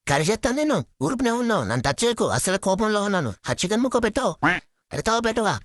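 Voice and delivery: put-on high, whiny kid sulking over chicken; childish angry tantrum. Little sister scolds big brother for not sharing, high sulky tantrum. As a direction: pout and demand the chicken piece like a cross little kid. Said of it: "ఎందుకంత కోపం".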